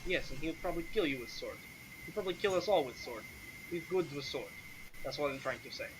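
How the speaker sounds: light, dismissive foreigner in broken Common; lightly voiced Sergei. Sergei warns an adventurer about the Count, lightly accented and dismissive.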